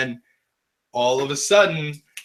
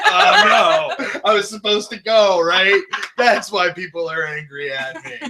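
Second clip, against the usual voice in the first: laughing mock panic; 3 semitones higher than usual. Realizing he's late at the light.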